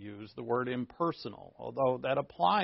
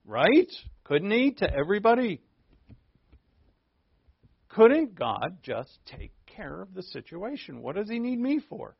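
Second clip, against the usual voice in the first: rising, puzzled mock objection, higher; incredulous question; 4 semitones higher than usual. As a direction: voice the listener's doubting complaint. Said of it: "the next thought in your head may be".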